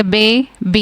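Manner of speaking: "बे, बी" as two separate beats, "bay... bee"; split into syllables. Shown as a demonstration. Teacher shows where long A falls, "बे, बी" split in two. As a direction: pause between "बे" and "बी". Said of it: "to the first syllable आए".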